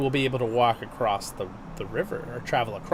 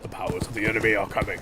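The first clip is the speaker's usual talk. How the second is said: Ian McKellen; 5 semitones lower, 4 dB quieter, faster than usual. Retold or imitated. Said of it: "commanding voice when he goes really low".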